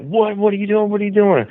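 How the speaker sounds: high, shocked disbelief; mock alarm at the news; freaking out. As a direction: gasp out the questions in shock. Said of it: "everybody started freaking out".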